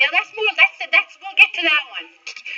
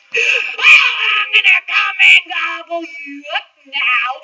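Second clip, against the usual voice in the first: loud booming troll threat; roaring troll; 5 semitones higher, 5 dB louder, slower than usual. Acted. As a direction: roar the threat. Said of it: "roared the troll".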